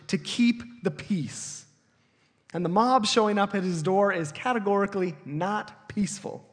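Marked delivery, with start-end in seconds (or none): 0.1-1.6 to keep the peace, drawn out slowly; slow emphasis. Shown as a demonstration. Preacher stressing Pilate's goal, slow emphasis. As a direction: linger on each word of keep the peace. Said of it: "that is Pilate's main goal".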